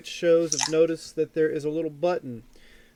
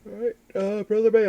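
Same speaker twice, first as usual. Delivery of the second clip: talking through a yawn; words stretched by a yawn; 5 semitones higher, 5 dB louder than usual. Real, not acted. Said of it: "I apologize for the yawn".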